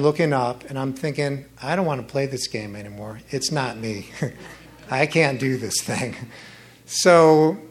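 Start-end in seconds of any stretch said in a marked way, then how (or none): 1.6-6.2 defeated. Retold or imitated. Defeated thoughts lying on back.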